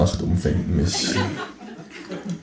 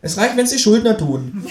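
high, cheeky kangaroo voice; 13 semitones higher than usual. Acted. Kangaroo asks narrator to shove over, high cheeky. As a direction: pitch way up for the cheeky marsupial.

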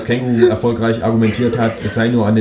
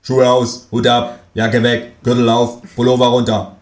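curt orders; 2 semitones higher than usual. Acted. Guard barks orders.

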